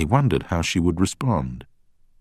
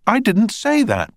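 higher, louder protest; 6 dB louder than usual. A narrator's reading. Witness Beth protests the barrister's claim, higher and louder. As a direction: object sharply, pitched up. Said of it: "protested Beth".

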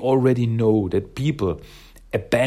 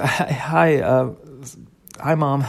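a slightly higher, hesitant greeting with a nervous laugh; nervous daughter on the phone; 4 semitones higher than usual. Retold or imitated. Mona calls her mom after long silence, nervous. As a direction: voice an awkward, tentative hello to mom.

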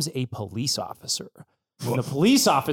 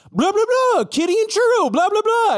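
very high sing-song blah-blah; chirpy human gibberish; 4 dB louder than usual. Acted. Vet tech talking to the dog's owner, high gibberish. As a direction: pitch way up, like baby-talking humans. Dave addresses owner, heard by dog.

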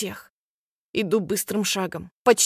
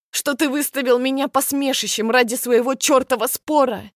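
higher, louder furious tirade; furious accusation; 4 semitones higher, 4 dB louder than usual. Acted. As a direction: hurl each accusation at him. Accusing cheating boyfriend. (яростные обвинения, выше и громче)

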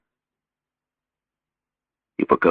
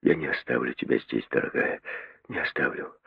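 tender low whisper; 4 semitones lower, 9 dB quieter than usual. A narrator's reading. The doctor whispering to Mary in his arms. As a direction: promise it in a whisper. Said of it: "шептал он".

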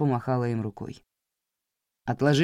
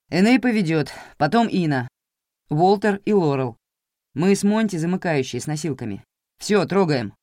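уверенно и громко; 3 semitones higher, 5 dB louder than usual. Acted. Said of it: "голос звучал уверенно и громко".

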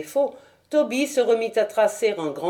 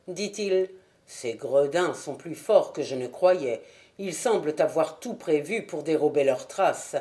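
a lightly voiced disappointed Holmes; low, grave Holmes weighing bad news; 4 semitones lower than usual.

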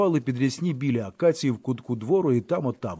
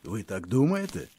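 polite irony; 5 semitones lower, 5 dB quieter than usual. A narrator's reading. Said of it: "спитав Петро дуже чемно і іронічно".

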